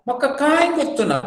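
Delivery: rapid teacher demo; quick demo phrase. Shown as a demonstration. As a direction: toss it off quickly. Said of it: "I don't know anything".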